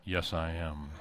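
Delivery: low, quiet cowboy movie-star drawl; hammed-up Western hero, soft and deep; John Wayne. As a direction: drop the voice low for a film-hero impression. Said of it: "in my best John Wayne voice".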